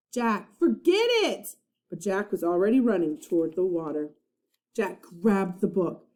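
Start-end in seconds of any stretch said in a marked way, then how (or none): 0.1-1.6 slow, pleading. A narrator's reading. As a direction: drag it out, begging him. Annie pleading.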